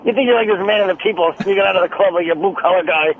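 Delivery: lightly voiced halting comic; mock-grumbling comic impersonation; Colin Quinn. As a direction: imitate swallowed talk with odd pauses. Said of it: "that is fucking Colin".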